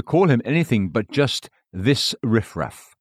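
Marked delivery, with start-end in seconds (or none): 1.7-2.9 contempt. Retold or imitated. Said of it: "Thus Christ read their contempt".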